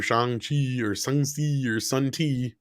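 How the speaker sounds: three slow variants of "Shang-Chi", ending on "Sun Tea"; trying out pronunciations. Shown as a demonstration. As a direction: slowly list "Shang-Chi" as "shong-chee", "song-see", then "Sun Tea". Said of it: "I got it the second time there".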